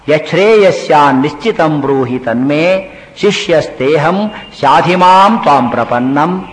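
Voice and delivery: slow, measured Sanskrit chant; shloka recitation. Acted. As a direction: recite the verse unhurried, each word weighed.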